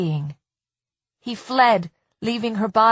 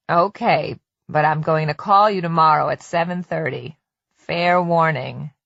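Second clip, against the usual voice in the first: a touch lower husband's voice, teasing; lightly lowered, playful husband; husband on the phone promising to call, lightly lowered; Bob's voice; 5 semitones lower than usual. Acted. Bob on the phone.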